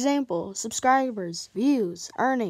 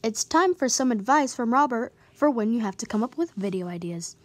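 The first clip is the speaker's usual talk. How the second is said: put-on Italian accent. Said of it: "Why did I just do that in an Italian accent?".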